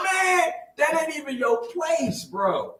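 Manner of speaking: high, slow, loud scold; older brother scolding, slow loud shout; retold scolding shout. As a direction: lay it down to him. Scolding brother after punch.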